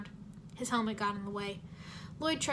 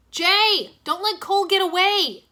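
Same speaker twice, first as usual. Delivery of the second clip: high, loud urgent yell; 9 semitones higher, 14 dB louder, slower than usual. Acted. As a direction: order him to act, shouting. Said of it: "Kai yelled".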